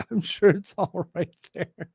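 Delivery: repeating it through laughter; laughing. Real, not acted. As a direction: say it while cracking up.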